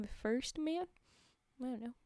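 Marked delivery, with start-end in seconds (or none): 1.6-1.9 mid-yawn, soft and drawn. Real, not acted. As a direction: speak through a yawn. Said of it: "a yawn".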